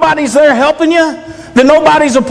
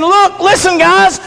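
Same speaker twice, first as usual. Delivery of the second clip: higher, pressing words to sleepy friends; urgent Jesus; 4 semitones higher than usual. Retold or imitated. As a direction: plead with them to understand, pitched higher. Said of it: "he's saying".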